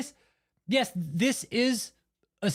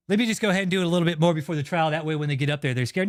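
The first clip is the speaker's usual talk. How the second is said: scheming lawyers; 2 semitones lower, faster than usual. Retold or imitated. Streamer imitates lawyers plotting to scare victims, scheming.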